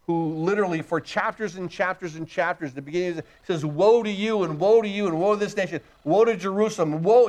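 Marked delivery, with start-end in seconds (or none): 3.6-7.3 imitating a prophet heaping up woes; pronouncing woes. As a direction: pound out each woe in a rolling list. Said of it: "he's woeing everybody".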